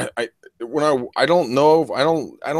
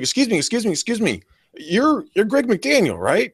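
higher-pitched imitation of an eager fan; urgently flag someone down, pitched up; excited mom; 10 semitones higher than usual. Mom chasing down a man she recognizes, eager high imitation. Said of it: "she's like".

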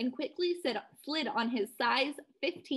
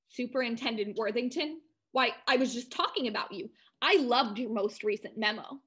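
lightly snooty upper-crust voice; a hint of lockjawed prep school; Ivy League accent. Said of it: "I went full-blown Ivy League".

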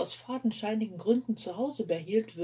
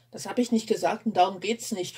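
snapping; 5 dB louder than usual. Acted. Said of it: "fauchte er".

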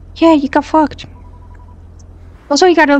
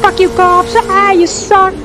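higher, sing-song jeering; mock taunt; 6 semitones higher, slower than usual. Real, not acted. Fan jeering at the cops on screen, mocking.

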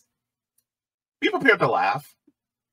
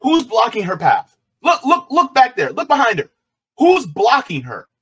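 exasperated; 6 semitones higher, 9 dB louder than usual. Real, not acted. Exasperated at the video.

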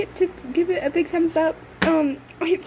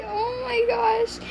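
high, slow, breathy-with-emotion gasp of awe; awed gasp; 5 semitones higher, 3 dB quieter, slower than usual. Real, not acted. Girl seeing her collie toy, overcome with awe. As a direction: let it catch in the throat in wonder.

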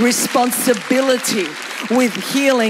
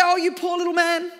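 high, gushing, overdone pity; mock sympathy; 11 semitones higher, 4 dB louder than usual. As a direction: coo with hammed-up pity, building to a loud whine. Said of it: "he didn't get down and go".

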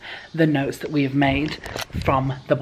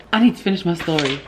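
louder, emphatic repeat; louder insistent repeat to the camera; firmer, louder repeat; 6 dB louder than usual. Real, not acted. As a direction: insist on finishing, a bit louder.

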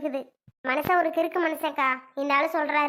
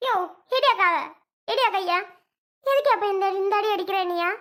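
heated, higher-pitched outburst; outraged protest; 4 semitones higher than usual. Acted. Beaten wife turning on her husband, outraged. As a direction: fight back with a raised voice.

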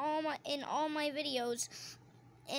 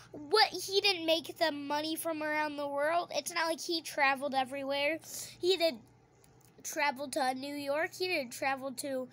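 louder, incredulous protest; indignant outburst; 4 dB louder than usual. Real, not acted. Girl protesting to viewers that her brother is unfair, indignant and louder. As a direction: push back hard, she can't believe it.

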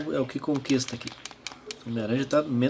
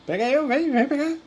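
excited taunt; 12 semitones higher, 4 dB louder than usual. Real, not acted. Taunting enemies while playing.

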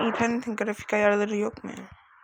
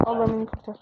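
breathy whispered prayer under the breath; whispered plea; 4 dB quieter, faster than usual. Real, not acted. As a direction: whisper it like a desperate little prayer. Oyunda çaresiz, fısıltıyla dua. (çaresizce fısıldanan dua)

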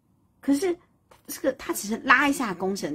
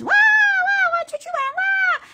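put-on high loud childish wail; bratty suns crying out; 6 dB louder, faster than usual. The suns flying off, high childish squeal. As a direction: squeal like spoiled kids.

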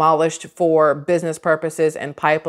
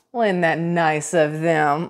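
sarcastic; 2 semitones lower, slower than usual. Real, not acted. Sarcastic remark about company pledge.

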